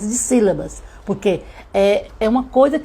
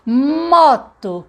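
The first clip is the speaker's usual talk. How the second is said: MOTO stretched out, higher on the first syllable; word sounded out; 5 semitones higher, 4 dB louder than usual. Shown as a demonstration. Teacher showing a child how to hear moto's first sound, sounded out. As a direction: draw out the opening sound of Moto. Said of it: "falando o som".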